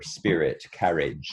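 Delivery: carriage with a clear open a like cat; stage standard carriage and spirit. Shown as a demonstration. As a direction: keep the first vowel of carriage distinct from the r. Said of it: "that structure is clearer".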